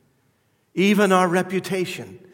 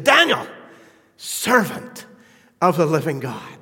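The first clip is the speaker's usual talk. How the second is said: anguished call; 4 dB louder than usual. Acted. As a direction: cry out to him across the den. King's anguished call re-enacted.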